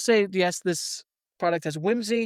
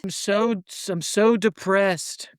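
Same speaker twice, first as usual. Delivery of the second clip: mock despondent; 3 dB louder than usual. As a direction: play at being miserable, dragging the words. Acting out someone from Great Depression.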